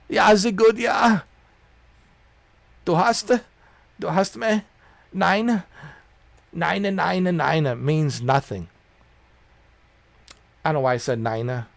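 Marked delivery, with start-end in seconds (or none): 0.1-8.7 mock German. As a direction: bark it like a comic German. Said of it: "Starting to sound like a German".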